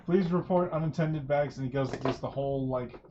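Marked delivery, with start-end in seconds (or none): 0.0-1.6 loud, bright flight attendant spiel; airline safety announcement. Acted. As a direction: rattle it off like cabin crew. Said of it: "airline pre-flight speech".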